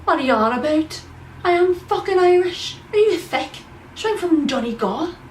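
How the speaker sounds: put-on furious high yell in a thick Irish accent; screaming Irish guy. Bar patron screaming at the vlogger that he is Irish. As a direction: scream it like an offended Irishman who is sure of himself. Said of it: "he started screaming at me".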